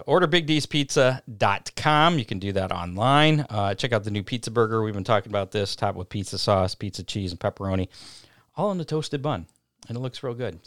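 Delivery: upbeat sponsor plug; radio ad read. Acted. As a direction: read it like a live radio spot.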